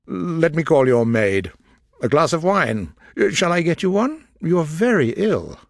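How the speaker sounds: solicitous gentleman. A narrator's reading. Darcy worriedly offering wine to ill Elizabeth, anxious. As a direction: fuss over her, worried. Darcy fussing over her.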